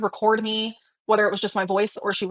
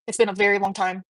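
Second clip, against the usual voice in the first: ordinary delivery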